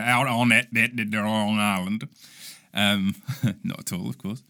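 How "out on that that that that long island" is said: put-on Long Island accent. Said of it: "which is how they talk out there".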